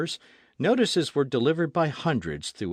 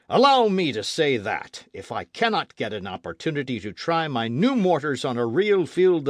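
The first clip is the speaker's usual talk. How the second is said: impassioned rant, louder and climbing higher; a warmonger pleading for one more war; fiery old gunner; 4 semitones higher, 6 dB louder than usual. Acted. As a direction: veteran artillerist ranting, louder. Maston's defiant threat.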